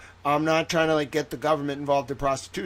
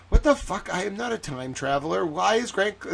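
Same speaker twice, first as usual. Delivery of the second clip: higher-pitched imitation of baffled outrage; mock indignant disbelief; 4 semitones higher than usual. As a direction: protest as if wrongly accused, hammed up. Imagines Hank reading the tweet.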